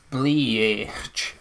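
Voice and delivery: "Bleach" drawn out, trying the letters as one word; tentative pronunciation. Shown as a demonstration. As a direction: sound out "Bleach" slowly, as bleee-aitch. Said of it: "maybe that's how you pronounce it".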